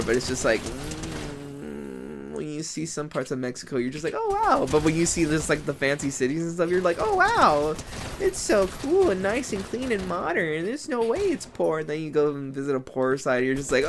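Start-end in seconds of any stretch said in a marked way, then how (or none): 4.1-4.7 high gasping oh wow; mock awe. Mocking a tourist impressed by Mexico, high awe. 7.0-11.8 mock awe.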